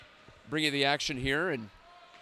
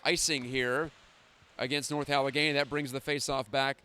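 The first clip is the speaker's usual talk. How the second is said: hockey play-by-play. Acted.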